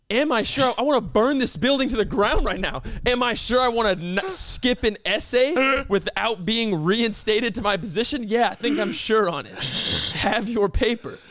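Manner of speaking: hammed-up indignation; indignant retort. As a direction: throw the question back, worked up. Retold angry retort to manager.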